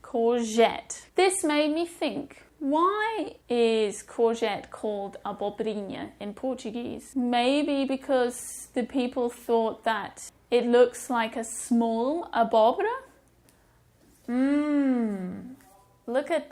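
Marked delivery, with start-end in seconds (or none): 0.0-1.1 courgette with a French "zh" for the G; soft G. Shown as a demonstration. Teacher comparing stolen French words, courgette with soft G. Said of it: "this G is also soft". 14.3-15.6 long, drawn-out hum of appetite; savouring "mmm". Pretend. Teacher revealing the next food, savouring hum.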